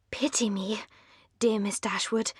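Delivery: hushed, unvoiced plea on the stairs; whisper. A narrator's reading. Lucy whispering to Miss Dashwood on the stairs. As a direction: whisper it so no one else hears. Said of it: "said Lucy as they walked up the stairs".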